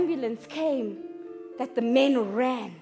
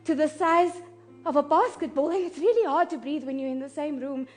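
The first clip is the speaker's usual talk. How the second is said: soft, fearful recounting fading quieter; hushed dread; 2 semitones lower, 9 dB quieter than usual. Acted. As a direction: keep it small, as if hard to breathe in that room. Hushed dread beside the injured man.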